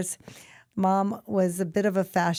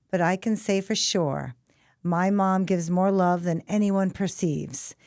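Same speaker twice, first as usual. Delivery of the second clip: measured poem reading in separate phrases; deliberate, emphatic verse reading with pauses; poem recital. Acted. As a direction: recite a rhyming tribute line by line. Reads son's poem aloud.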